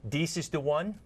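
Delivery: "Dies" said with a D sound where "This" has TH, lightly imitated; mock mispronunciation. Host shows a nurse the D for TH confusion, lightly imitated. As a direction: imitate someone saying "Dies" for "This". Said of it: "heard somebody say".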